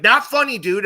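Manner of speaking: loud, high mock objection; offended protest. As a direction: cut in loudly as the affronted friend. Friend objecting in retold argument.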